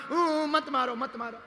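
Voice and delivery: moan, then whimper it in pretend tears; mock crying. Stone flinching from hammer and chisel, mock-crying. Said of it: "रोने लगा".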